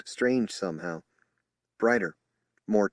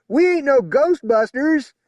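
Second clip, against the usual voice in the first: much higher, loud, slow mocking yell; yelled jeer; 11 dB louder than usual. Another officer jeering at the spokesman, loud yell. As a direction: jeer from the back. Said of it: "Someone else yelled".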